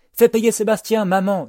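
very high, loud yell; Brian yelling. A narrator's reading. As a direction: holler it at the top of a high voice. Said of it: "hurle Brian".

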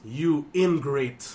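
slow heel snarl; wrestling promo voice. Retold or imitated. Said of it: "biglang wrestling voice".

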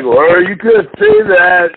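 high, slow, amused drawl; mock high Rogan. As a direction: play it up high and slow as a stunned host. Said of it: "he was like".

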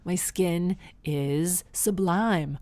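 very slow, drawn-out self-praise; mock boastful. Joking about her amazing skin, slow mock vanity. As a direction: savor each word with playful vanity.

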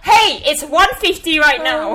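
cracking up at her own joke; laughing. Real, not acted. Podcaster teases listeners about her numbers, laughing.

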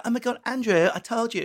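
high-pitched mock reproach; mock-annoyed I told you; exasperated scold. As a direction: whine it like you warned him. Acted exasperated partner.

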